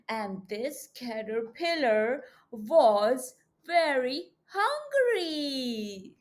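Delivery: slow, expressive storybook reading; reading to children. A narrator's reading. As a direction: read it big and slow for little kids.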